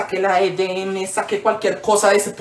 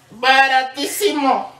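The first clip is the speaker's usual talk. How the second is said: mom quoted; 3 semitones higher, much slower than usual. Retold or imitated. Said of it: "Mami, pidieron cincuenta mil".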